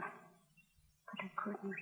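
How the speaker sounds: drawn-out, barely voiced; dying, fading out. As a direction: let the words die away slowly. Dying woman, confession.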